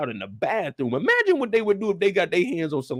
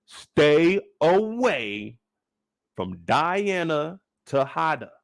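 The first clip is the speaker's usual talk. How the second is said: dramatic warning; much slower than usual. Acted.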